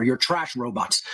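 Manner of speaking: flat robotic monotone. Shown as a demonstration. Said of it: "Let me work on saying things like a robot".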